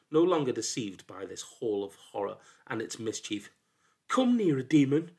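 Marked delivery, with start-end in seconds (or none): 4.1-5.2 high, loud challenge to a demon; defiant cry. A narrator's reading. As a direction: shout a threat at the demon. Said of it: "he cried".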